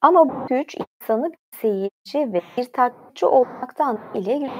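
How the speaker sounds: usual speaking voice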